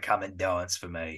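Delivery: terrifying, strong, laid-on Cockney voice. Describing a film's big bad, doing Pupatino's terrifying Cockney voice. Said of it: "got a real strong Cockney accent".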